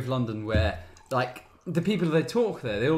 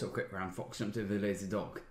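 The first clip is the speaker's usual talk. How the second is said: softer, lower English accent; soft English accent take; English accent demo; 9 semitones lower, 13 dB quieter than usual. Shown as a demonstration. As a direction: read it with a clipped English lilt. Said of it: "go through a series of accents".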